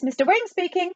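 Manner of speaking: put-on high, little phone voice with Chinese accent; high caricatured Chinese-accented voice; small distant voice. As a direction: pitch it up as a tiny faraway shopkeeper. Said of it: "said a small distant voice".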